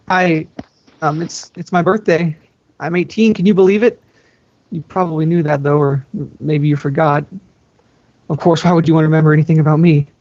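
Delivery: nervous cheer through the door; hopeful younger sister. Acted. Sister talking to a locked door, hopeful and nervous. Anna voiced at Elsa's door.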